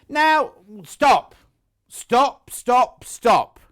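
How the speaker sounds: high, loud, delighted cries of stop; excited stop. Real, not acted. Host crying out to viewers over gorgeous fabrics, excited shouting. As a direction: shout stop as if the fabrics are too tempting.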